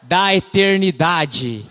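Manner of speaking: a hint of a proclaiming prophet. Shown as a demonstration. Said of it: "repita comigo com voz de profeta, aquela voz forte". (voz de profeta forte e solene)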